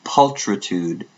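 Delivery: "Pulchritude" said slowly as a single careful word; careful pronunciation attempt. Shown as a demonstration. Checking the word with Leanne, careful slow "Pulchritude". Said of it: "Am I pronouncing it correctly".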